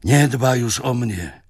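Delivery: little knight wailing his loss to Zagłoba; cry of deep grief. Acted. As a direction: cry it out, heartbroken. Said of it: "zawołał z głębokim żalem".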